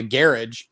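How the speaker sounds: GARAGE as "GAIR-idge", stress up front; garage rhyming with carriage. Shown as a demonstration. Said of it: "I've heard people call it".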